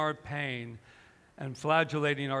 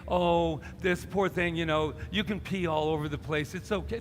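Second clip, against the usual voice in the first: mock pity; 2 semitones higher, 4 dB louder than usual. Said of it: "to just pity her and feel sorry for her and say".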